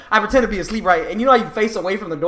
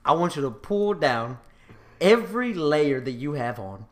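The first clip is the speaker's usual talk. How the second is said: stern dad; 5 semitones lower, 6 dB quieter than usual. Retold or imitated. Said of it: "he's like".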